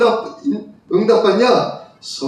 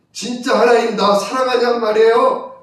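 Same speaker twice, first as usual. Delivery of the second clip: mildly exasperated protest, pitched up; retold irritated complaint; 6 semitones higher than usual. Caller venting to the pastor about God, irritated retold complaint. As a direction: imitate a fed-up caller demanding an answer. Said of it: "계속 짜증나고 힘들고".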